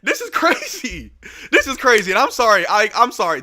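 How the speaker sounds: crying, trying to talk himself down; tearful. Real, not acted. Streamer apologizing to viewers while still crying, tearful. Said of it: "this is my biggest crash out".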